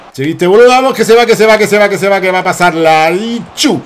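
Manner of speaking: loud, high, excited Argentinian imitation; mock Argentinian accent. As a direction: race along like an Argentinian cheering a play. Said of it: "que tengo amigos en Argentina".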